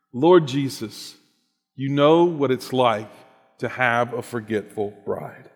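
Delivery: slowed right down, each phrase set apart; slow, deliberate repeat. Shown as a demonstration. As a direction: let every word land slowly. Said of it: "Can you hear those words again?".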